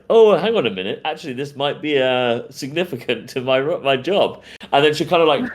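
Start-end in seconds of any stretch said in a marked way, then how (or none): 0.1-4.4 smitten detective. Acted.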